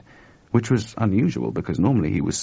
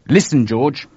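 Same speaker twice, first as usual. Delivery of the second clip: urgent; 6 semitones higher, 6 dB louder than usual. A narrator's reading. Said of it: "said Chuck urgently".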